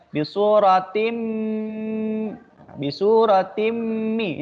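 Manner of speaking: bi suratim mi with a held humming m; idgham recitation. Shown as a demonstration. Teacher reciting an idgham example to students. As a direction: hum the mim in suratim mi. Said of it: "idgham bi gunnah".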